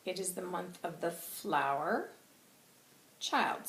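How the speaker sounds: put-on "It is the month of the flower, child" said with a rise on "flower"; a question-like lilt on "flower", then "child"; ambiguous delivery. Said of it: "the way he's said it".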